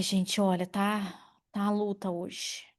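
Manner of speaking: ordinary talk, nothing marked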